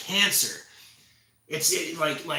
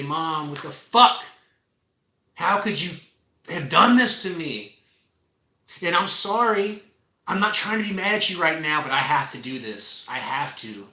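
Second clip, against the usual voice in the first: angry outburst at mom; 5 dB louder than usual. Pretend. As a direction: yell at mom, then steady yourself. Imagined confrontation with mom.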